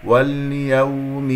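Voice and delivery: slow recited واليوم; leen waw demo. Shown as a demonstration. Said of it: "واو لين".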